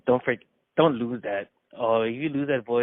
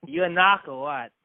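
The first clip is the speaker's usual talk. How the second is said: light mock New York accent; a hint of New York tough talk; put-on New York street accent; 2 semitones higher, 4 dB louder than usual. Shown as a demonstration. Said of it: "New York, it's like".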